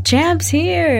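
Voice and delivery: put-on giddy kid yelling; excited shout. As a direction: burst out with the news. Excitedly telling friend.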